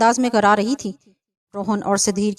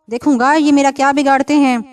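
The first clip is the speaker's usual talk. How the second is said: higher and louder, a menacing possessed voice; terrifying voice; 4 semitones higher, 5 dB louder than usual. Acted. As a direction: threaten them as the spirit inside her. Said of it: "اس کی آواز اتنی خوفناک تھی".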